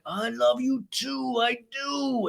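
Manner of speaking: high, slow, soft posh voice; Lisa impression. Lisa answers James's hug, high slow posh coo. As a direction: coo it like a grande dame.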